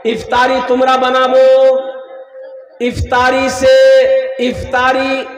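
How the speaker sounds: chant-like sermon instruction with stretched phrase endings; emphatic preaching. Real, not acted. Preacher telling mothers and sisters to prepare iftar early, emphatic preaching. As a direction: intone the instruction to the congregation.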